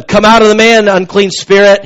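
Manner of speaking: authoritative scriptural command. Acted. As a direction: cast it out with authority. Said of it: "He's commanding the demon to come out".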